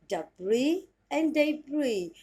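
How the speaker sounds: very slow "debris and debris", each syllable drawn out; slow careful demo. Shown as a demonstration. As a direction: spell the sounds out slowly for learners. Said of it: "And the next pronunciation is".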